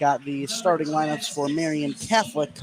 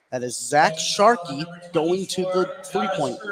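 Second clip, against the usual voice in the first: steady running game call; live play-by-play. Real, not acted. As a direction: call each possession as it unfolds.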